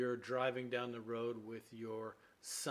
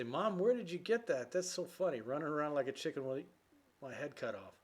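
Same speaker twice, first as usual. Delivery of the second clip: put-on higher, delighted kid asking mom; amused child; 3 semitones higher than usual. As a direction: play the young boy tickled by the phrase. Child voiced talking to mom.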